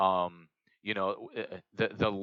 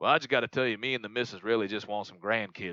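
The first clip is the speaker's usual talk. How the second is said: put-on rural Southern hillbilly accent. Playing someone who wants grandkids: redneck hillbilly accent. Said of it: "I don't know why I'm doing a redneck hillbilly voice".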